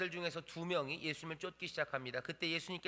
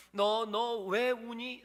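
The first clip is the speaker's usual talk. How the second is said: tender gentle question; 6 semitones higher, 5 dB louder, much slower than usual. Acted. Jesus asking the weeping Mary why she cries, slow and tender. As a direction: lean in and ask as if comforting a child. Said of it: "라고 물으면서 오시는 거예요".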